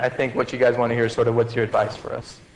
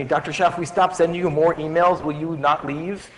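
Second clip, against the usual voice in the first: lightly voiced pleading student, raised pitch; a hint of a hopeful student, higher-pitched; student's plea; 4 semitones higher than usual. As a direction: imitate a student bargaining, rising at the end. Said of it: "A student asked me".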